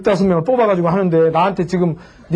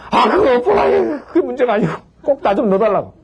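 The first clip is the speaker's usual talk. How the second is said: whining plea. Retold or imitated. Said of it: "막 때를 쓴 거예요".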